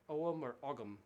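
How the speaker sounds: Ogham first as "OH-um", then Ogham as "OG-um"; both pronunciations. Shown as a demonstration. Musician unsure of the word, offering Ogham both ways. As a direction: say Ogham with a silent g, then a hard g. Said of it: "I'm sorry if I'm mispronouncing that".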